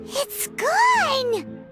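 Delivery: high-pitched amazement; astonished. Acted. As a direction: exclaim high in wonder. Flower vanishes.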